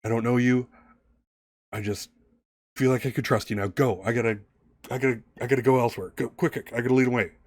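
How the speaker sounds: lightly acted hurried man; a touch of urgency, building as he leaves; urgent man. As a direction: urge them to go, mildly frantic. Plays man hurrying them off.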